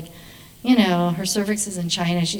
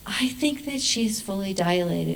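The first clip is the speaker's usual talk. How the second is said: slow, hushed wake-up report; annoying doula; 5 dB quieter, slower than usual. Retold or imitated. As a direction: imitate a doula softly waking the midwife. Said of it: "the doula annoyingly really wakes me up".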